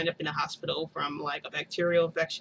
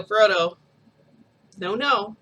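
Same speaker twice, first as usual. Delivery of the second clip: scolding; 3 semitones higher, 8 dB louder, slower than usual. Retold or imitated. Scolding baby for throwing.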